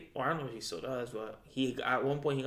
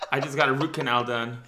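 half-numb mouth, words a bit slurred; numb from the dentist; 9 dB louder than usual. Real, not acted. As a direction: speak like the dentist just numbed you. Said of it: "half of my face is, uh, is numb".

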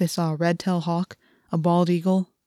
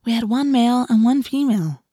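put-on higher, emphatic girl's voice; weary explaining; 5 semitones higher, 3 dB louder than usual. A narrator's reading. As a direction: spell it out with strained patience. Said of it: "explained for the tenth time".

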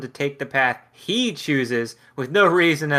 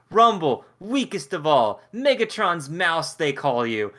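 mocking. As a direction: tease with a touch of scorn. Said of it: "he makes fun of Rumble".

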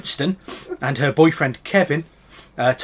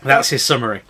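laughing; 10 semitones higher, 8 dB louder than usual. Real, not acted. Laughing at summary.

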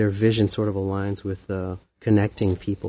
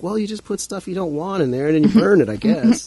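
unsure answer; 8 semitones higher than usual. Retold or imitated. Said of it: "It's like".

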